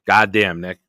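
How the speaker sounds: hammed-up mom cursing her son; mother's curse impression. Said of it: "That's what my mother would say".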